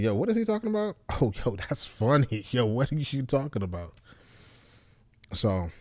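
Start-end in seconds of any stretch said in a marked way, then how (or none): 0.0-3.9 mock surprised audience member. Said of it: "and be like".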